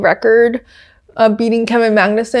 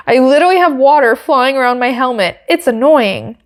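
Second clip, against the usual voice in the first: American accent; 3 semitones higher than usual. Shown as a demonstration. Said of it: "say it in an American accent".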